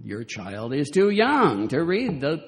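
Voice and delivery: slow, saccharine mock agreement; sweetly. Replying sweetly to parents about the Little Mermaid, sugary mock. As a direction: smile sweetly while slowly needling the parent. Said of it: "tempted to smile and sweetly at them and say".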